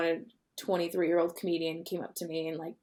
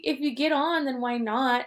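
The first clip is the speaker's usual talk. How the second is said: British accent attempt; 5 semitones higher, slower than usual. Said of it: "I can't do a British accent right now".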